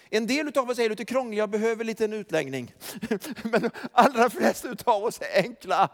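ordinary delivery

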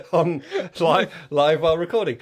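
muffled inside a jumper; talking while stuck in a jumper; through a sweater. Real, not acted. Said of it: "this is me taking off my jumper".

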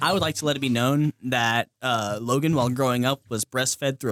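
pompous courtroom lawyer voice; mock lawyer. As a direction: address the jury grandly.

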